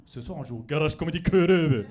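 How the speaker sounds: loud, over-the-top anime voice; hammed-up Japanese anime delivery; manga voice. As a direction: announce it like a manga hero. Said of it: "je fais tout le temps la voix comme dans les mangas".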